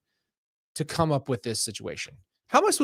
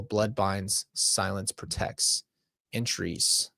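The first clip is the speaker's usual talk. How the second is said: measured reading, sinking lower toward the end; story narration; 4 semitones lower than usual. A narrator's reading. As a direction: read the old journal out gravely. Reads journal text aloud.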